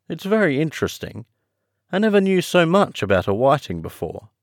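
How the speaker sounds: high, interested Alice; high storybook heroine, politely keen. Acted. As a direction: speak as Alice, pitched well up.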